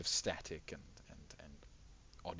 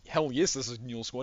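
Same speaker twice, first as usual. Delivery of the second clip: Dame answering; 4 semitones higher, 9 dB louder than usual. Acted. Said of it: "of course Dame sa-, says".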